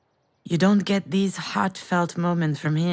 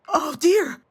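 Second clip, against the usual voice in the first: imitating child's cry; 8 semitones higher, 4 dB louder than usual. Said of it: "you started screaming".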